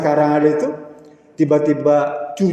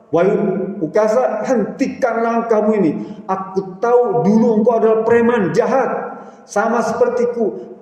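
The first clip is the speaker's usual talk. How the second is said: Umar defiant; 3 semitones higher than usual. Acted. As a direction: offer yourself with fierce devotion. Preacher voices Umar. (suara Umar yang tegas dan bersemangat)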